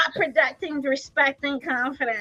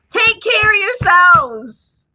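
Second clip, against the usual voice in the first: slow emphatic; 5 semitones higher, 9 dB louder, much slower than usual. Real, not acted.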